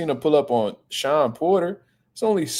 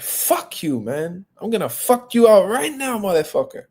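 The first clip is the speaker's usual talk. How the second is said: imitated threat; 4 semitones higher than usual. Canelo threatening, retold again.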